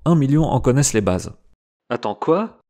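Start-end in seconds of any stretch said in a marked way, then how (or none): 1.9-2.6 mock-surprised listener butting in; a pretend double take, rising at the end; surprised exclamation. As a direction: play the puzzled audience interrupting. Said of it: "Vous entends-je vous exclamer".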